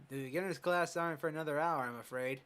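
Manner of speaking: put-on a lightly done East Asian accent for the old coach. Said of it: "I'm giving him this accent, this voice".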